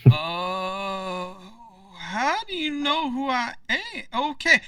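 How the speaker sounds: a caught-off-guard official, fumbling; flustered mayor. Acted. Mayor caught off guard by strangers, flustered and high.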